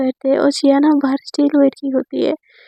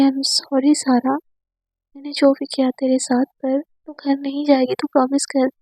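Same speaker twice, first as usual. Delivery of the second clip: soft tearful apology; 5 dB quieter than usual. Retold or imitated. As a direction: apologise gently, almost in tears. Tearful apology to friend on bed. (धीमी, नरम, रुआंसी माफ़ी)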